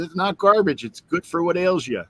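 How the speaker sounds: put-on huffy kid defending his cereal; friend protesting. Friend insisting to his dad that cereal isn't garbage. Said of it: "And he goes".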